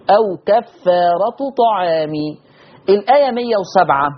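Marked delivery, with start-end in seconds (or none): 0.1-2.1 no tanween on كفارة, kasra on طعام; Warsh reading. Shown as a demonstration. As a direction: recite أو كفارة طعام as "aw kaffaaratu ta'aami". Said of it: "مضمومة بس من غير تنوين".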